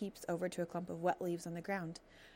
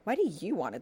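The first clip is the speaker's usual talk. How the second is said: louder, sour fox grumble; scowling; 6 dB louder than usual. Acted. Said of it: "the fox scowled".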